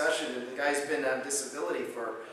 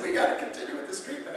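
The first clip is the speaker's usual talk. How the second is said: eager patient; 13 semitones higher, faster than usual. Retold or imitated. Patient quoted, keen to continue.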